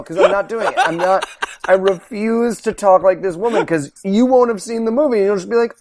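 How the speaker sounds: normal talking voice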